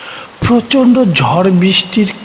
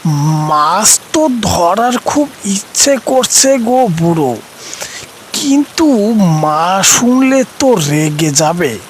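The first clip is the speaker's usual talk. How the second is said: put-on higher, keen boy torn by mother's warning; excited but hesitant child; eager boy voice; 3 semitones higher than usual. Nonte answers excitedly. (উঁচু গলায় উৎসুক কিন্তু দ্বিধাগ্রস্ত ছেলে)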